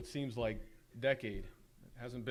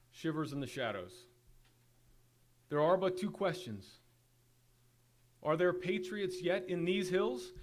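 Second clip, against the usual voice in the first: roaring rallying speech; 2 semitones higher than usual. Acted. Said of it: "You can see why William was on".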